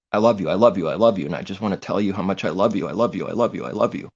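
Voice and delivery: loud, rapid, overdone "I love you" repeated; hammed-up gushing of someone hiding hatred; mocking fake love. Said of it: "You start by going".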